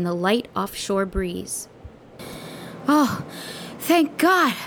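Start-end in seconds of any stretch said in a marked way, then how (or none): 2.9-4.5 high huff of relief; out of breath, huffing. A narrator's reading. Kid finds the friend in the fog, huffing with relief. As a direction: huff it out, pitched well up. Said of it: "I huffed".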